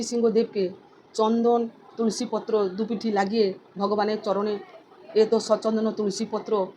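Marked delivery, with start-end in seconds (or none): 5.1-6.7 slow offering mantra; mantra demo. Shown as a demonstration. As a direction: recite it as you offer the leaf. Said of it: "এইভাবে আপনারা অর্পণ করতে পারেন".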